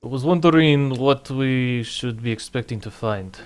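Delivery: put-on light Eastern European accent. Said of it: "I'm using a Eastern European accent for him".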